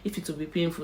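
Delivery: high, anxious asking; lightly voiced patient fear; nervous question. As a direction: worry aloud before the needle. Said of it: "I asked her".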